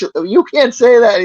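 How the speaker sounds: high, slow scolding Michael. Retold or imitated. Michael scolding Archie, high slow mock-scold. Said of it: "and it's".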